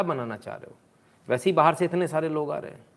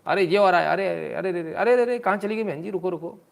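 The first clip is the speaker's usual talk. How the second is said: higher, teasing calls of "wait"; mock calling out; 5 semitones higher, 3 dB louder than usual. Real, not acted. Host teasingly calls after a woman leaving the frame, playful shout. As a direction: pretend to call after the tourist.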